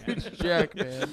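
slow "Huge Jackman", Hugh ending in a j; joke mispronunciation. Acted. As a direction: savour "Huge" for Hugh with a laugh. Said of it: "it's pronounced huge".

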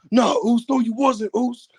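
high, hammed-up denial; mock tearful brother. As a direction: melodramatic brother pushing back. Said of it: "And he's like".

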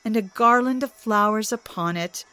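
lightly voiced mocking god; teasing Loki. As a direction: rub it in sweetly.

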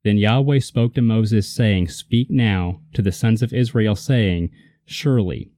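slow, measured Bible reading; solemn slow scripture read. Acted. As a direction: read the verse out deliberately. Reads scripture aloud.

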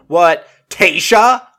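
half-mocking disbelief at the news; mock surprise. Contestants learning the new bachelorette.

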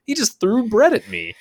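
very high, shocked squeal; can't believe the bread; shocked outburst. Retold or imitated. After bread thrown at him, very high shocked squeal. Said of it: "I was like".

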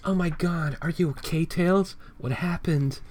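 put-on high, worried little girl voice; high girlish voice, fussing over Tails; Hello Kitty voice. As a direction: squeak it out like a worried cute cat. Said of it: "Hello Kitty goes".

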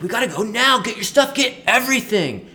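rally everybody in a laughing rush; excited rousing call. Retold or imitated. Guide urgently rousing the group.

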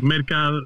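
Mercado broken off after the CAD; cut-off hesitation. Retold or imitated. Man imitating Latinos puzzled by his surname, breaking off mid-name. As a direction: stop short midway through Mercado, as if unsure. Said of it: "and they pause".

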